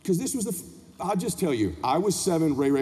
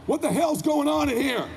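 higher-pitched mock angry demand; indignant father; 6 semitones higher than usual. Dad walks in on mom hugging son, indignant. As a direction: burst in demanding answers.

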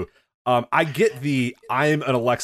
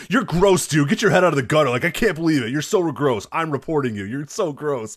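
mock disgust; 3 semitones higher than usual. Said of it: "your tweet after saying".

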